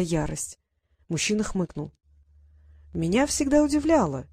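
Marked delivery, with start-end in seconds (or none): 2.9-4.3 drawn out. A narrator's reading. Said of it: "протянул он".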